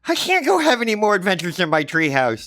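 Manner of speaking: put-on high, loud kid voice; glum kid. Johnny tells his mother he can't play, high and glum. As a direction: complain like a sulky kid.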